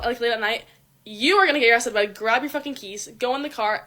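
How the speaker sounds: usual speaking voice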